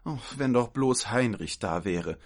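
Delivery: wistful sighed wish; sighing. Acted. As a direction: sigh it in mild despair. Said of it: "seufzte die eine".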